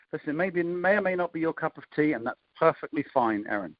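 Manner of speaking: "perfectly" leaned on a little in "that's perfectly fine"; gentle takeaway with a stressed "perfectly"; emphasis on perfectly. Shown as a demonstration. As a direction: give "perfectly" a light push. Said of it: "you can hear also a little bit of emphasis".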